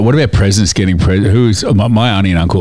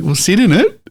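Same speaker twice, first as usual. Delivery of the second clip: parents' urging; 13 semitones higher than usual. Retold or imitated. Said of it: "they were like".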